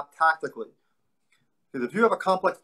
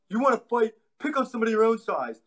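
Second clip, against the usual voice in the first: put-on raised, indignant young voice; kid challenging a bully; 5 semitones higher than usual. Kid daring the big bully to fight, indignant. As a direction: call the bully out like an angry eight-year-old. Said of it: "and I go".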